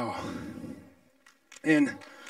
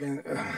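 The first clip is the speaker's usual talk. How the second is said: retold groan; 7 semitones lower, 12 dB quieter than usual. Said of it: "And I was like".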